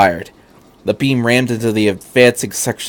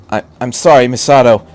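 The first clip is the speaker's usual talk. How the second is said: voice cracking; 5 dB louder, faster than usual. Acted. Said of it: "his voice cracking".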